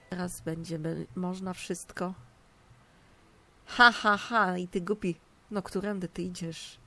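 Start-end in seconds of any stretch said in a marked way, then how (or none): 3.6-4.6 loud mocking laugh. Real, not acted.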